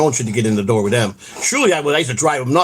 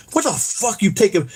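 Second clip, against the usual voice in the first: higher-pitched, mildly angry retort; retold pissed-off; 7 semitones higher than usual. Telling how he challenged them over Brennan, mildly pissed. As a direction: replay an annoyed challenge without raising the volume. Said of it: "I was pissed".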